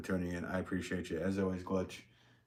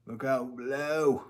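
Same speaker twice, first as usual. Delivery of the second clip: playful, drawn-out call, slightly higher; mock warning call; 5 semitones higher, slower than usual. Potter jokingly warning those below, mock call-out. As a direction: stretch it out like a warning shout.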